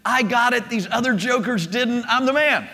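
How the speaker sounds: mock boasting. Peter thinking after his high moment, mock boasting. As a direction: gloat lightly, as if imitating Peter. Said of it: "I'm sure Peter's thinking".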